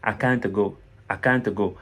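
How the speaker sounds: "can't" with long A and a clearly sounded T; CAN'T as "kaante". Shown as a demonstration. Teacher asking learners to repeat, exaggerated "kaante" in "can't". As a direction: spell out the T in "can't". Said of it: "Prononcez ça plusieurs fois".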